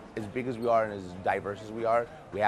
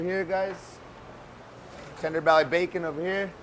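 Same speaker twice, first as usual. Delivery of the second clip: calling from far away; 6 semitones higher, 3 dB louder than usual. Real, not acted. Chef leading tour through loud kitchen.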